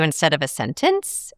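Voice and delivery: "sentence" rising as if asked; question inflection. Shown as a demonstration. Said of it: "it sounds like a question".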